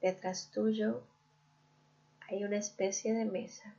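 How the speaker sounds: calm guided-visualization voice with long pauses; guided meditation. Real, not acted. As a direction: lead the listener gently inward, leaving room to breathe. (meditación guiada, pausada y serena)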